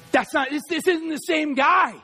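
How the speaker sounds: emphatic declaration at full voice; forceful retelling. Retold or imitated. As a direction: proclaim it firmly, stretching the words. Repeats boxer's line with force.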